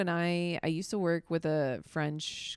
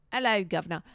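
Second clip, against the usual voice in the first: light practice British accent, louder; 5 dB louder, faster than usual. Shown as a demonstration. Comic warming up for a British accent. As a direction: try out a cheeky British accent. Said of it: "How do you do a British accent?".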